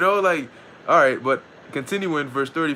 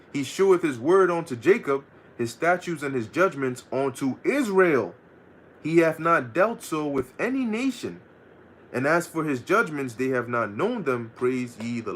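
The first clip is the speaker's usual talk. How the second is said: scripture reading. Acted. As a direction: read the verse out solemnly like scripture. Reads Psalm aloud.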